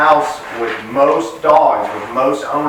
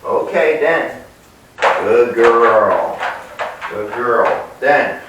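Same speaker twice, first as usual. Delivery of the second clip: calm release to the dog; much slower than usual. Real, not acted. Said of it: "so then I can say".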